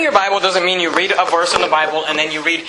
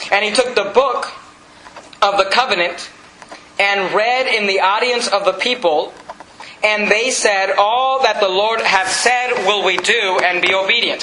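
measured, deliberate Bible reading; scripture reading; slower than usual. Acted. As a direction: read it out slowly to a congregation. Reads scripture aloud to congregation.

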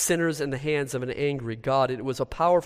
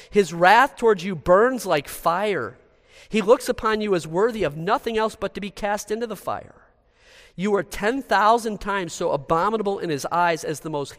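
raised, emphatic sermon voice; hellfire preaching; 4 semitones higher, 4 dB louder than usual. Acted. Preacher quoting a famous sermon to congregation, hellfire preaching.

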